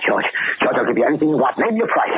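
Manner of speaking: breathless, rising to a high plea; desperate pleading. Acted. Gangster bargaining with the barber holding a razor, desperate. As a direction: beg for mercy, voice climbing.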